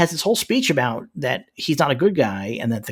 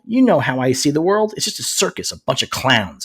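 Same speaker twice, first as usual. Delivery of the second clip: mock aggressive speech, pitched up a little; Punisher; 2 semitones higher, 3 dB louder than usual. Co-host reads out the show's speech, hammed-up indignation. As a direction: rant it as indignant rhetorical challenges. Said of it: "here's the speech that he gives".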